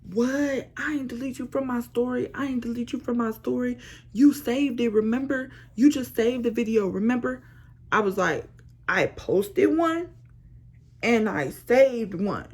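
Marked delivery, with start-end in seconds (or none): 0.1-7.4 higher, a light imitation of the boyfriend insisting; defensive boyfriend. Girlfriend imitates her fiancé denying he deleted the video, mildly voiced, higher. 8.9-12.5 slow, pointed and higher; insistent. Retold or imitated. She firmly corrects her fiancé, slow and pointed. Arguing back, her own quote.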